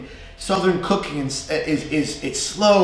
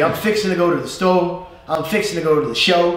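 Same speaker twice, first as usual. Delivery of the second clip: Southern accent; 2 semitones higher than usual. Shown as a demonstration. Teacher giving Southern phrase examples, light Southern accent. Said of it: "when you think about Southern".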